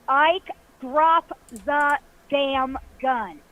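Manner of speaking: each word laid down slowly and firmly; a lawman's last warning, very slow; the lawman warns Ike a second time, very slow and stern; slow stern command. Retold or imitated. Lawman repeats order, stronger.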